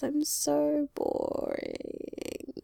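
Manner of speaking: croaky, cracking whisper. Real, not acted. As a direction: voice going rough and croaky. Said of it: "it's getting croaky".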